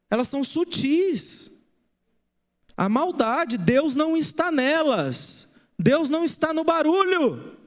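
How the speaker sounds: preaching. Acted. Pastor warning the church about lying voices, preaching. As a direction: drive the point home to the congregation.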